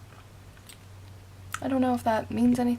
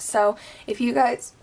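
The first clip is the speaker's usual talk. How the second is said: hiccuping. Real, not acted. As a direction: cut off by a hiccup. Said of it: "oh, I'm hiccuping".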